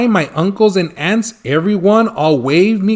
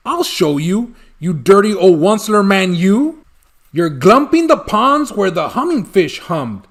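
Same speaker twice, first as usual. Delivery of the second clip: riled Lorax; 3 semitones higher than usual. Acted. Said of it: "his dander was up".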